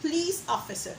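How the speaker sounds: Police officer with weak po and uh ending; schwa demo. Shown as a demonstration. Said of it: "the word police officer".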